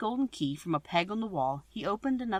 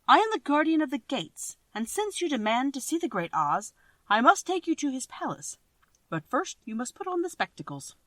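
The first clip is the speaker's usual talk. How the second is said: loud, higher, proclaiming gatekeeper; grand gatekeeper; 3 semitones higher, 5 dB louder than usual. Acted. Guardian of the gates lecturing the travellers, loud and grand. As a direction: announce it like a self-important guard.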